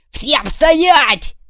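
high, loud bellow; commanding yell. Acted. Kuvalda on the jeep roof yelling at the crowd. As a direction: freeze the crowd with a roar.

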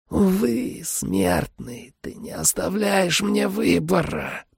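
high, soft, slow vampire hiss; hissing feral vampire. A narrator's reading. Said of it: "прошипел вампир".

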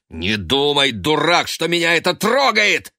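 high, loud furious shout; enraged rebuke. A narrator's reading. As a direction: spit it at him. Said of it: "яростно сказал Бен".

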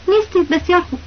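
knowing, sly agreement that means the opposite; loaded with meaning. A narrator's reading. Nejdat humoring the teacher's denial, sly and knowing. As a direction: say it with a wink in the voice.

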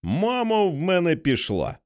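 high, thrilled call down the stairs; delighted shout. A narrator's reading. Girl shouts down to her mother in delight. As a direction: call out in pure joy. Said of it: "прокричала вниз у захваті".

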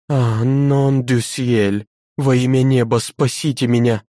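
frightened cry. Acted. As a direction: beg heaven to save you. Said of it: "громко крикнула она".

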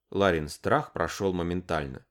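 ordinary delivery, nothing marked

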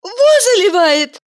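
high, slowed disbelief; a high, stretched scoff; amazed. A narrator's reading. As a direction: scoff in astonishment. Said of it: "поразилась Валерия".

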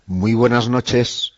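slow, sultry late-night greeting; drawn-out seductive hello; sensual voice. Real, not acted. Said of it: "Uy, con una voz, eh, sensual".

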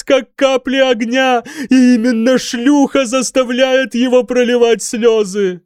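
high, loud, raving prophecy; frantic raving. A narrator's reading. Mad monk raving at the hall about God's tears. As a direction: rant like a crazed preacher.

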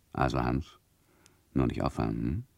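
soft, low confiding aside; hushed aside. Acted. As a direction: murmur it to Hans alone. Narrator quietly advises Hans.

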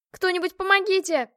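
помогите pushed up high and loud; desperate scream. Acted. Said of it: "закричала я". (отчаянный крик «помогите»)

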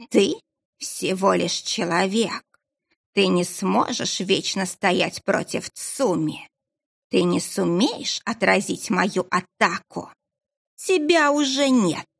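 slow, eerie voice inside her head; a dark presence speaking in the mind; telepathic voice. Acted. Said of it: "Незнакомый голос звучал прямо в голове".

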